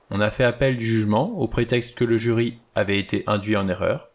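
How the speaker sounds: lightly voiced exact old judge; precise judge. The judge defends his sentence to the guests, a lightly voiced calm judge.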